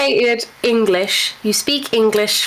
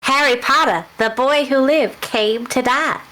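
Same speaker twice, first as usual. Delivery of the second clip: slow Southern drawl climbing to a high-pitched curse; drawn-out Alabama accent, theatrical villain; Voldemort, Alabama accent; 4 semitones higher than usual. Acted. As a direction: play the dark wizard in a thick Alabama accent. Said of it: "Alabama version of Voldemort".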